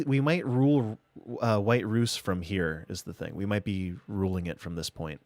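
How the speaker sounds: light mock Russian accent. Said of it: "In Russian accent".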